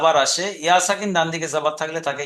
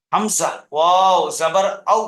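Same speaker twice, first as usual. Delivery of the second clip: measured spelling with "ওয়াও" stretched and "আউ" left short; Qaida spelling drill; 3 dB louder, slower than usual. Shown as a demonstration. Teacher demonstrating letters for absent pupils, measured spelling drill. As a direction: stretch "ওয়াও", then say "আউ" without lengthening. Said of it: "নরম আওয়াজে তাড়াতাড়ি পড়লাম".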